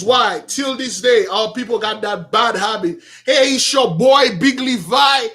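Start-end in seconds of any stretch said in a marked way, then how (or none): 3.2-5.3 a buddy greeting his friends, hyped; mock street greeting. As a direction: imitate a guy bigging himself up. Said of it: "Don't talk like that".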